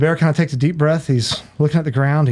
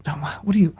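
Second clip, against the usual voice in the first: higher, stammering protest; acted bafflement; 4 semitones higher than usual. Bear told to leave asks to get out, acted bafflement. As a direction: sputter a half-hearted objection.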